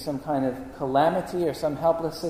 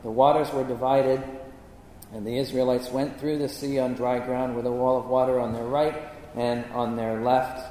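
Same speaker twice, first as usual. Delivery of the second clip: measured, lower-pitched Bible reading; scripture reading; 5 semitones lower than usual. Acted. Preacher reads the Exodus account to the congregation, measured scripture reading. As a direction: read the passage aloud with restraint.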